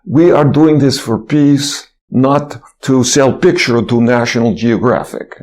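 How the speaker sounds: slow, lightly imitated Russian accent; a touch of Russian accent, measured and earnest. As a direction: mimic a Russian man pleading, slowly, with a mild Russian accent. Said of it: "in his Russian accent".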